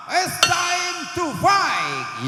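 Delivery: slow, high, stretched fight call; announcer shout. Acted. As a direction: roar it to start the bout. Start of round one.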